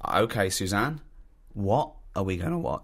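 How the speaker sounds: low, soft imitation of him; mock meek husband. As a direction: play the dutiful husband, quietly. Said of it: "you go".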